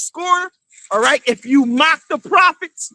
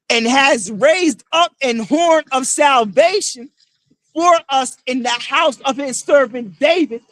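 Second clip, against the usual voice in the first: scripture declaimed. Acted. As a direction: proclaim each word like the prophet himself. Reads scripture aloud to crowd.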